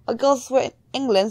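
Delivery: shaky-skilled attempt at an English accent. Player trying out England for the character, English accent. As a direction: try on a light, amateur English accent. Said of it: "I'm not good with accents".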